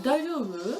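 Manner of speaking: "Daijoubu" said with lips pushed forward; mouth-forward Japanese. Shown as a demonstration. Showing her friend forward-mouthed Japanese, lips pushed out on "Daijoubu". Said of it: "it sounds better when you do that".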